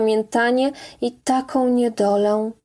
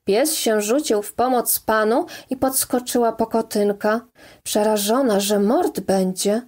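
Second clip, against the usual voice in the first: ordinary delivery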